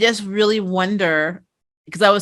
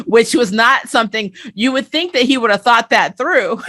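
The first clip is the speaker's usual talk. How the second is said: high, laughing through the words; real laughter carrying the line; 4 semitones higher, 4 dB louder than usual. Real, not acted. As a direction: giggle while telling it. Laughing while recounting.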